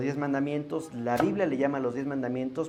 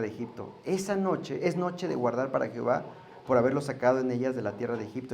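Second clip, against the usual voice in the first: scripture reading. Acted. Reads Exodus aloud.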